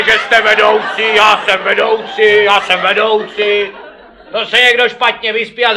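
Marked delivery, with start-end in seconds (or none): 1.1-3.7 mock boast. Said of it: "To nám pořád neříkejte".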